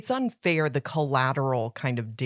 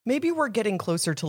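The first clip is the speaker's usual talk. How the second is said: hopeful Harry; 9 semitones higher than usual. Retold or imitated. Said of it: "Harry was sort of feeling like".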